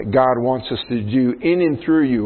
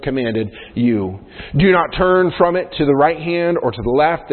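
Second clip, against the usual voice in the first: raised, emphatic Bible reading; scripture reading; 3 semitones higher than usual. Acted. Preacher reads God's charge to Joshua to congregation, emphatic scripture reading. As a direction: read the verse out with firm emphasis.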